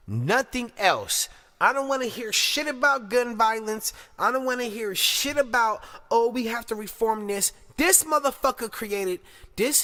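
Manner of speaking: loud, high-pitched angry tirade; outraged rant. Real, not acted. Commentator condemning a hate crime, angry and loud.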